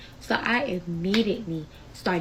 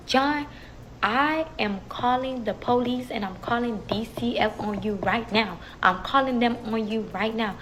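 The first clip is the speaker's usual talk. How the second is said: raised, emphatic retold warning; stern threat; 3 semitones higher, 3 dB louder than usual. Grandmother warning John she's calling police, stern threat. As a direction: lay down the warning as an angry mama.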